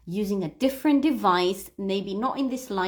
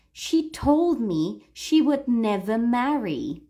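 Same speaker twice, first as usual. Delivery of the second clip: slow reading with "told", "never", "marry" stressed; stress on key words; 2 semitones higher than usual. Shown as a demonstration. Teacher modelling a sentence to repeat, stressing "told", "never", "marry". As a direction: hit "told", "never", "marry", keep "She", "me", "would" light. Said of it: "Pay attention to the words I am emphasizing".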